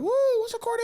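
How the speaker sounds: imitating the host's hammed-up welcome; hype intro. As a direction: pump up the crowd. Host hypes him onto stage.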